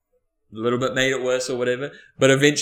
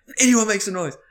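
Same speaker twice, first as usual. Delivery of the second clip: raised, higher imitated warning; retold stern threat; dead-serious stern; 9 semitones higher, 4 dB louder than usual. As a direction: warn the whole room sternly. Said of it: "Dead serious".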